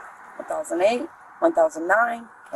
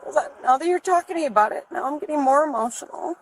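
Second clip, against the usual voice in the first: real anxious distress; 7 semitones higher than usual. Real, not acted. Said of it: "I'm having a lot of anxiety".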